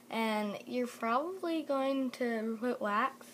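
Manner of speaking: slow, mouth full of braces wax; talking weird with wax. Real, not acted. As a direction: talk around wax on your teeth. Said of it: "Sorry, I'm talking weird".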